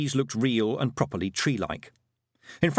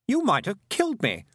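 hoarse; 10 semitones higher than usual. A narrator's reading. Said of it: "he said hoarsely".

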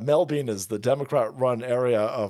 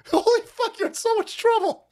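laughing mockery. Real, not acted. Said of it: "mocking laughter".

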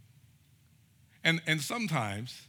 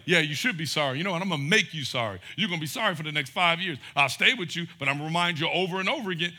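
louder, bitter mock retort; mock resentful victim; 2 semitones higher, 5 dB louder, faster than usual. Hurt person throws the apology back, mildly mock angry. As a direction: play the grudge-holder a little. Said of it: "And then it's like".

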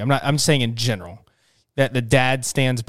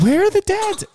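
squeaky high question. Real, not acted. Playful question to audience.

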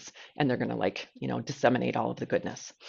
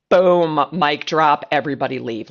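mock triumphant exclamation; 8 dB louder than usual. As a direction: announce it like a mic drop, half joking. Retold own excited reaction.

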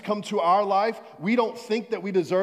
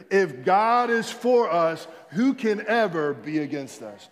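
with conviction; 4 dB louder than usual. Shown as a demonstration. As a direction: say it like you mean it. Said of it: "Say it like you mean it".

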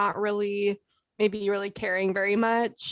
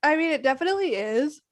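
yawning; 5 semitones higher than usual. Real, not acted. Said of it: "Sorry, I'm yawning".

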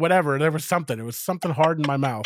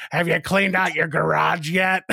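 gravelly nurse voice; 3 semitones higher than usual. Retold or imitated. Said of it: "real gravelly voice".

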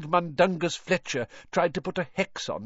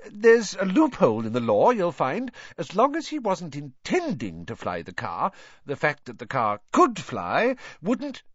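nervous excuse; 4 semitones higher than usual. Acted. Husband nervously excuses himself.

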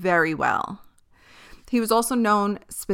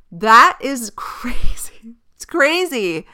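shocked whisper; 4 semitones higher, 7 dB louder, slower than usual. Real, not acted. Shocked by the designer's quote.

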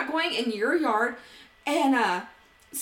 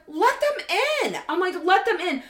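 higher, louder repeated demand; higher, louder demand to open the gate; insistent demand; 6 semitones higher, 4 dB louder than usual. Retold or imitated. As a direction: insist he lets them in, pitched up.

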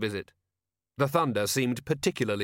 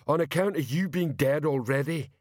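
higher-pitched character voice for Detritus; Detritus, ponderous character; 5 semitones higher than usual. Acted. Detritus reassuring a worried companion, blunt character voice.

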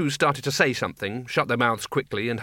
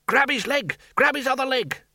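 frantic shouting; 12 semitones higher than usual. Acted. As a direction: yell while wrestling him down. Wizards grabbing Windle.

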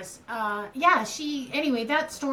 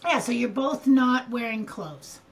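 choppy breaking-up call audio; audio cutting out. Real, not acted. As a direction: connection dropping in and out. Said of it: "You keep cutting out".

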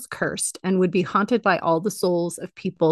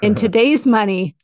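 louder, punchy announcement; loud big reveal; 2 semitones higher, 6 dB louder than usual. Pretend. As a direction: hit it like a game-show reveal.

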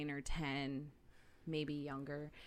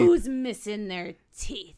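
slow, much louder, drawn-out cry; hammed-up child alarm; dramatic alarm; 2 semitones higher, 13 dB louder, slower than usual. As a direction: call it out to the whole house. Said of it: "I was a very dramatic child".

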